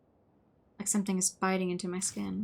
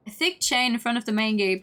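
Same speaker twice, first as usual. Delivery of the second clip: louder, scoffing read-back; incredulous repeat; 2 semitones higher, 5 dB louder than usual. Real, not acted. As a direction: repeat it loudly in disbelief. Repeats the line in disbelief.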